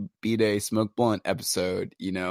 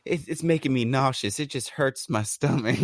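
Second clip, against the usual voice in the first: higher, complaining grandma voice; whiny grandma; 3 semitones higher than usual. Retold or imitated. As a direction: whine like a queasy grandma. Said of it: "she's like".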